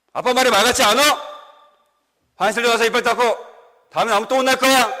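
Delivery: loud, high furious dad yelling at his son; angry scolding. Retold or imitated. Father scolding his son for brushing teeth outside the bathroom, loud angry yelling. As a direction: bark it out like a fed-up father, building threat. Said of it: "겁박하고 화를 내고 무섭게 했습니다".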